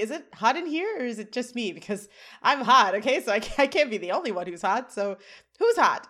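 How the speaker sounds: rattled babble, played up for comedy; nervous. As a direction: blurt it out in an acted nervous fluster. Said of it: "He goes nervously".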